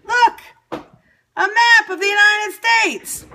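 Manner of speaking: high, slow triumphant announcement; excited reveal. Real, not acted. Showing viewers the map, thrilled slow announcement. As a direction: show the map off, thrilled and drawn out.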